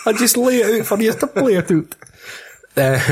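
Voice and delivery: high, slow put-on American; mock American accent. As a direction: repeat it as a high fake American. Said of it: "Your fucking accents are rubbish".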